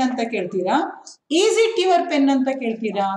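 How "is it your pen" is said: raised pitch, a little louder on the question; question example. Shown as a demonstration. Teacher modelling a question for the class. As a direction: lift the voice to show a question. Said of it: "In question form you will ask".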